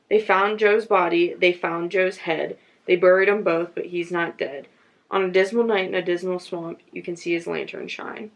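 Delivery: measured, rhythmic verse reading; ballad recitation. A narrator's reading. Reader sharing a local ghost ballad, measured verse recitation. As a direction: recite it line by line like an old rhyme.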